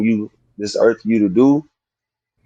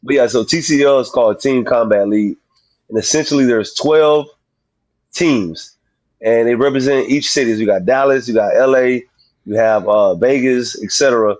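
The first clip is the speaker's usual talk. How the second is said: slightly slurred speech, new mouthpiece; slurring words. Real, not acted. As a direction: talk around a new grill. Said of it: "if I sound like I'm slurring my words".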